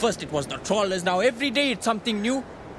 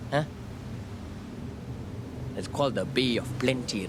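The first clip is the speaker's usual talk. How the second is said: ordinary talk, nothing marked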